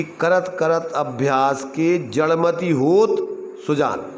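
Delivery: slow, होत stretched and rising, pause, then सुजान dropped; other reading of verse. Shown as a demonstration. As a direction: lift होत as if asking, then answer सुजान. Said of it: "दूसरी तरीके से उसका अर्थ करें". (होत को उठाकर विराम, फिर सुजान)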